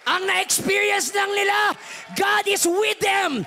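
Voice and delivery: high, loud, climactic sermon shouting; full-force preaching. Acted. Pastor rousing the congregation toward forgiveness, shouting. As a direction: preach it to the rafters.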